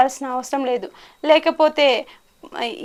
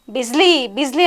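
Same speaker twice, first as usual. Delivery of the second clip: a retold yell for the lost horse; mild mock shout. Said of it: "అని గట్టిగా అరుస్తున్నాడంట". (యజమాని గుర్రాన్ని గట్టిగా అరిచి పిలవడం, తేలికగా)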